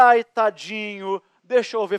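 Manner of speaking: voz mais aguda e lenta, com pena; mock tender wife. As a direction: imitando a Patrícia com dó. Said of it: "A criança, Patrícia". (a esposa com pena da criança, voz aguda e arrastada)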